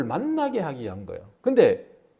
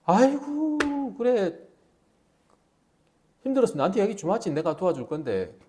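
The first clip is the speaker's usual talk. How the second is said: hollow sympathy; 3 semitones higher, 3 dB quieter than usual. Acted.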